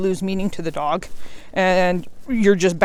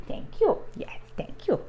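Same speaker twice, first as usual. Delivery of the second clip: high soft whisper to a sleepy dog; whispered thanks; 12 semitones higher, 9 dB quieter than usual. Real, not acted. Owner whispers thanks to her drowsy puppy, whispering. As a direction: breathe the thanks gently.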